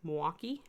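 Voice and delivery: Milwaukee squashed to two syllables, "Mwaukee"; local pronunciation. Shown as a demonstration. Demonstrating home-state speech, Milwaukee contracted to "Mwaukee". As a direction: say Milwaukee as "M'waukee", swallowing the "il". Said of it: "it's Milwaukee".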